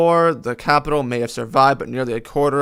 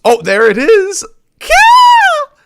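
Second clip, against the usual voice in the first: sudden loud high battle cry; battle shout; 12 dB louder, slower than usual. Acted. Reader hams up the warriors' charge, shouting. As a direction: yell the charge at the top of your voice. Reading a battle moment aloud.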